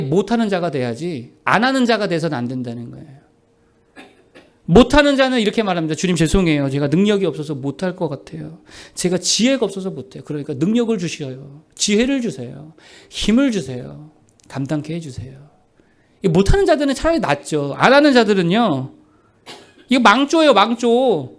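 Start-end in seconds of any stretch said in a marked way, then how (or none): 5.9-15.5 softer, lower apologetic prayer; quiet, contrite request for help; humble pleading. Acted. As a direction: plead meekly, as if confessing weakness. Acted humble prayer of the unable.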